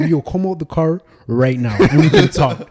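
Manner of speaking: shouting across the street; retold yell. Yelling at the driver across the street to come out. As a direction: call him out of the car, loud.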